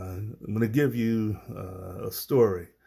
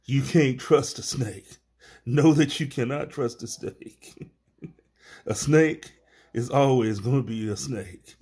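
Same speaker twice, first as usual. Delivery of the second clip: laughing through the moral; 4 semitones higher than usual. Real, not acted. Laughing at own fable moral.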